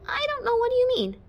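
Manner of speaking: high, tight squeak. Acted. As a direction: barely get the words out, squeaking. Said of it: "I barely squeaked".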